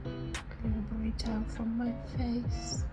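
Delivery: sick and in pain. Real, not acted. In pain, rough night.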